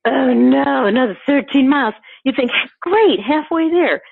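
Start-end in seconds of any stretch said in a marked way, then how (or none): 0.1-1.9 mock groan. Contrast: what marathoners don't think. 2.8-4.0 cheery marathoner. Retold or imitated. What marathoners think instead.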